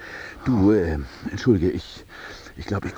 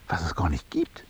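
langsam, raunend; geflüstert; 4 semitones lower, 4 dB quieter than usual. Acted. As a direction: wie ein Geheimnis verraten. Raunt eine große Erkenntnis. (raunende Erkenntnis)

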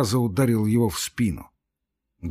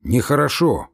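instructive guard, mildly voiced; a hint of a stern warder lecturing. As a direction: set him straight like a warder. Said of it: "сказал наставительно Никита".

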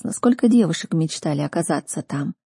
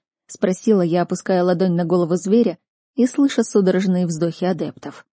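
plain reading voice

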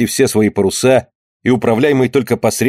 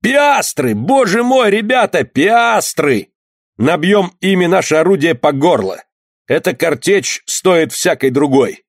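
high, roaring cry of wild joy; shrieking jackpot winner; 5 semitones higher than usual. Acted. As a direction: roar it out, delirious with joy. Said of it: "закричал, ревя от радости".

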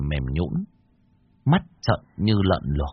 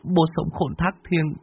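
murmured prayer rising to a higher plea; pleading prayer; 6 semitones higher than usual. Acted. Anh Lập prays to his dead father to leave them alone. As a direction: beg your dead father at the altar.

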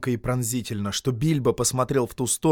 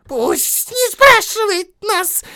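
much higher, louder, slow shriek; Gollum shrieking; 11 dB louder, much slower than usual. Acted. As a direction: screech at the intruder. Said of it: "взвизгнул Голлум".

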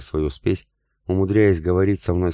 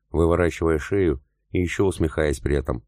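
plain reading voice

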